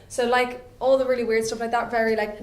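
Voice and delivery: usual speaking voice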